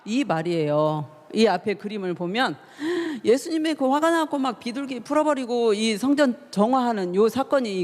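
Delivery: ordinary delivery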